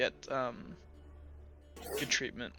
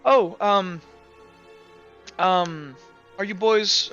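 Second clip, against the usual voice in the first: higher, hesitant lady's voice; hint of a lady, faltering; lightly voiced lady; 4 semitones higher, 5 dB louder, much slower than usual. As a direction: play a mildly flustered lady, lifting the pitch. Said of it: "Lady Veronica's kinda gonna walk back".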